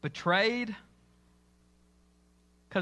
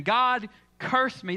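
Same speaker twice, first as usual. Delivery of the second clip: slow, louder cursing; mock curse, slow; 5 semitones higher, 4 dB louder, slower than usual. Preacher asks the crowd to imagine Peter cursing, slow and loud. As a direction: drag out the curse.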